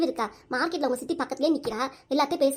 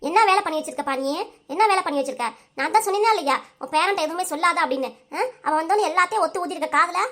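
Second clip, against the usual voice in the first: worked-up telling-off, pitch a little raised; angry scolding. Acted. Daughter berating her parent for telling the grandson about the money, angry scolding. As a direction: hammer home one reproach after another.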